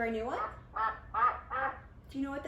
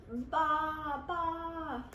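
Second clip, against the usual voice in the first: sheep baa; 3 semitones higher than usual. Shown as a demonstration. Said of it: "A sheep".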